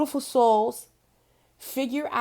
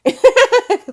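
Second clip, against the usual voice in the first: mock brush-off; 11 semitones higher, 13 dB louder than usual. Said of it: "You easily say".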